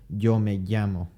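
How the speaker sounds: Yo me llamo with a clear y; y sound. Shown as a demonstration. Teacher giving the standard y pronunciation. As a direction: say llamo as yamo. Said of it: "it's a".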